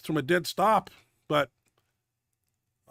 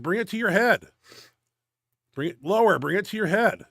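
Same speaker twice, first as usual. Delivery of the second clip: retold yell; 3 semitones higher, 5 dB louder than usual. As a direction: call the cue out hard to a lifter. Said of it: "but I yell at him. I said".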